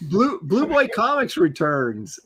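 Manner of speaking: numb mouth, slurred words; talking with a numb lip; numb from the dentist. Real, not acted. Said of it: "Half my mouth is still numb".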